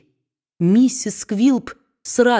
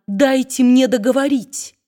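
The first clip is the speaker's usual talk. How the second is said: high, louder tearful plea; tearful pleading; 6 semitones higher, 4 dB louder than usual. A narrator's reading. Wife pleading to finish speaking, tearful. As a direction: beg to be heard, near tears. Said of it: "со слезами на глазах взмолилась".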